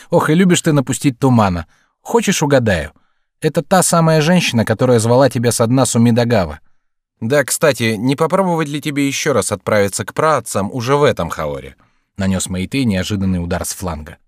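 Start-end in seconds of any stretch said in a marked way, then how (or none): 0.1-11.8 higher, louder playful needling; teasing. Acted. Meitei teases the host about a mystery woman, lively and teasing. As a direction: needle a friend with lively relish.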